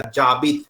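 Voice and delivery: जाबित said with no h sound; teacher explaining silent h; silent h demo. Shown as a demonstration. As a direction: say जाबित, dropping the h. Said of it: "एच को नहीं pronounce करेंगे".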